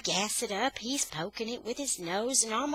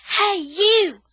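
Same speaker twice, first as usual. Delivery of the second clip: high, loud call down the street; yelling; 11 semitones higher, 12 dB louder than usual. A narrator's reading. Boy calling after lawnmower thieves, yelling. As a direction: holler to stop them. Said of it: "I yell".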